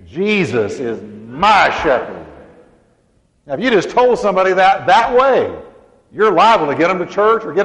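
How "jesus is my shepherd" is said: slow, weight on "my"; proud slow witness line; said with pride. Shown as a demonstration. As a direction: testify "Jesus is my shepherd" to someone. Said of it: "put Jesus in place of the Lord".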